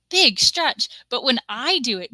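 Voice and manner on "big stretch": high, loud cooing at a pet; cooing at a cat. Retold or imitated. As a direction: coo it like praising a cat. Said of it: "everybody has to say".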